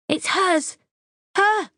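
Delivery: very high, pointing accusation; high shrill-pitched accusation; accusing shout. Acted. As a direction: cry it out accusingly.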